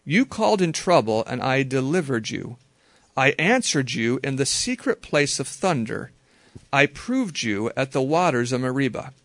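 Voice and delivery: measured reading aloud of the verse; calm reading of a psalm verse; scripture reading. Shown as a demonstration. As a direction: read it as God speaking, steady. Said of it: "I'm putting it into my own English, God speaking".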